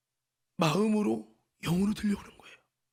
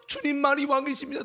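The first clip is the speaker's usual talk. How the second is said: higher spoken profession, without singing; declared confession; 4 semitones higher than usual. Retold or imitated. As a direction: recite it earnestly before the rebuttal. Confession repeated before rebuttal.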